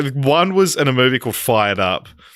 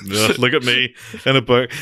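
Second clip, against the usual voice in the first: mock show-off. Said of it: "showing off".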